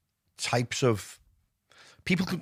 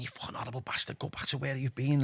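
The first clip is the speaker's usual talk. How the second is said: hushed mock tirade; a hint of an angry wife, half-whispered; understated retold scolding; imitating angry wife; 2 semitones higher, 6 dB quieter than usual. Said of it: "she'd be going".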